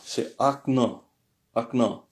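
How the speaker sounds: akna with the second O said as a weak A; Russian pronunciation demo. Shown as a demonstration. Teacher to French learners showing how akno sounds: akna. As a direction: say akna, the final vowel a faint A. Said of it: "le deuxième O est prononcé comme un faible A".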